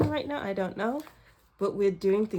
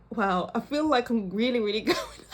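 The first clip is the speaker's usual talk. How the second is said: laughing; 3 semitones higher than usual. Real, not acted. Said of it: "I'm laughing".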